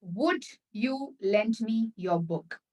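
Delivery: slow, careful polite request with would; slow model request. Shown as a demonstration. Teacher slowly models a polite request for students. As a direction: spell out each word politely. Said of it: "Perfectly fine".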